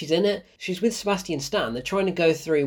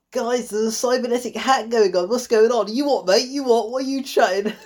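mock British accent, pitched up; hammed-up British banter, higher voice; British Lupita Nyong'o; 4 semitones higher than usual. Mocking an actress's radio lines, British accent. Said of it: "British Lupita Nyong'o".

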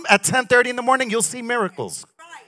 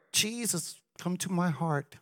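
a hint of a half-hearted prayer; lightly voiced careless believer; mock quick prayer; 6 semitones lower, 16 dB quieter than usual. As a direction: mumble it like a token prayer. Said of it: "they recited a little prayer".

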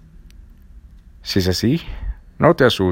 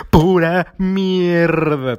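laughing; 8 semitones higher, much slower than usual. Real, not acted. Mocks the fortune teller.

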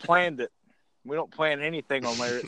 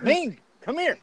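higher, put-on gruff summons; Barbarian voice; 10 semitones higher than usual. Imagining the Barbarian calling him over, put-on voice. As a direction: call him over like a wrestling heavy. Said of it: "he's gonna be like".

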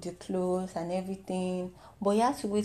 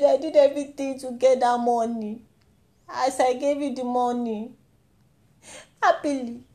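mock guilt trip; 3 semitones higher than usual. Parent guilt tripping child over money. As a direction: rant like a parent scolding. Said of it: "they used to guilt trip us".

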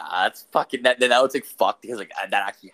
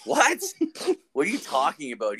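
surprised; 4 semitones higher than usual. Retold or imitated. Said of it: "I'm like".

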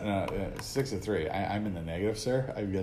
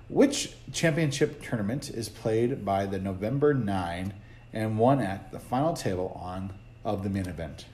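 slow, lightly put-on bad rock-singer voice; a half-hearted stab at a rock singer, slowly; shitty rock-singer impression; 6 semitones lower, 6 dB quieter than usual. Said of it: "I was doing a really shitty version of a rock singer".

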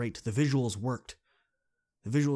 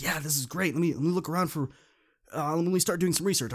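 mock excited; 6 semitones higher, 4 dB louder than usual. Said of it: "all excited to work".

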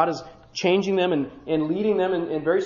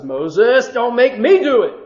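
louder, firm warning; 5 semitones higher, 8 dB louder, slower than usual. Acted. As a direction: put your foot down. God warns Moses.

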